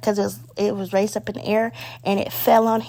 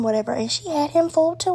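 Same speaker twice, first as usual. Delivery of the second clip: ordinary talk, nothing marked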